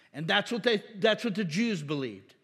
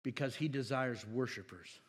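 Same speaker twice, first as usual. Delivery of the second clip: sincere and soft; 5 semitones lower, 4 dB quieter than usual. Real, not acted. Preacher to the congregation, quiet sincere emphasis. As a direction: lower and settle into the truth.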